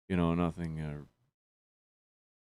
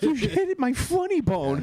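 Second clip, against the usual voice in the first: laughing; 5 dB louder, much slower than usual. Retold or imitated. Mimicking a clumsy vaccinator, laughing.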